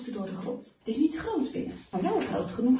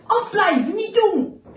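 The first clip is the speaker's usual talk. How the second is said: loud, high panicked yell; high, forceful cry of protest; 8 semitones higher, 11 dB louder than usual. A narrator's reading. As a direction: shout someone off while dreaming. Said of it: "gilt hij".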